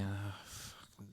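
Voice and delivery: a low, hushed curse under the breath; muttered curse. Retold or imitated. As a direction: mutter it to yourself, deflated. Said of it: "you just think".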